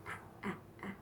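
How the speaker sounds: whispered ah ah ah; quiet ah. Shown as a demonstration. Therapist showing a parent a quiet sound, whispered. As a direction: breathe the ahs out softly. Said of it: "make it really quiet".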